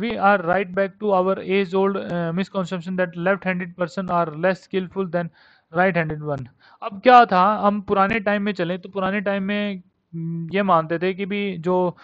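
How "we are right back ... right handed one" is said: reads the English text word by word, very slowly; slow dictation reading. Acted.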